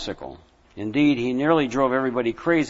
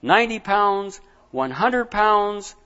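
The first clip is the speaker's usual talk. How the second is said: building tension; 6 semitones higher than usual. A narrator's reading. Pressure mounts toward burst.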